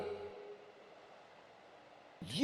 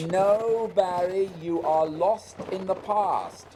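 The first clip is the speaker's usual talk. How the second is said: louder, firm dismissal; insistent raised voice; 3 semitones higher, 6 dB louder than usual. Acted. Scott insisting Barry cannot follow, loud and firm. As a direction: shout him down over the wind.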